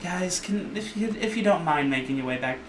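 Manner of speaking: high, flustered little gnome woman; nervous shopkeeper shooing people out. Acted. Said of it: "gnome woman's like".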